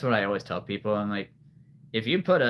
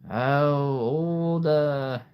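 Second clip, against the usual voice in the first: lightly voiced dragon trapper; a hint of a trapper admiring his catch; Eret; 3 semitones higher than usual. Trapper eyes a night fairy, lightly acted. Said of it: "This is Eret".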